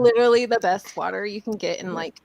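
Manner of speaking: lightly voiced valley girl; a hint of a gushing Cali girl; bubbly sorority girl. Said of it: "you sold that shit with that voice".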